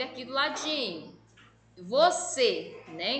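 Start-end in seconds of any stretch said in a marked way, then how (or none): 1.8-2.8 Você with a firm, long "cê"; stress on last syllable. Shown as a demonstration. Teacher showing pupils the tonic syllable, emphatic. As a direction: lean on the final syllable of Você. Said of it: "o C é uma sílaba tônica".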